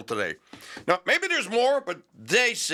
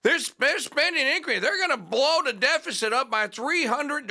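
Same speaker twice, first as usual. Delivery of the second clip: Massie impression; 11 semitones higher than usual. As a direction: mimic Massie's Kentucky accent, much higher. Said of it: "I'm trying to do my Massey accent".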